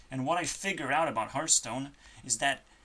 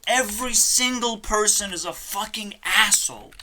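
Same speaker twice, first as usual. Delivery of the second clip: angrier repeat; 5 semitones higher, 3 dB louder than usual. Real, not acted. Repeats rant, second louder.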